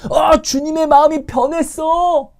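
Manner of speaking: high, loud, slow wail of blame; exaggerated accusing cry; mock complaint. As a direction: whine that the Lord has changed. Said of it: "라고 원망하시겠습니까".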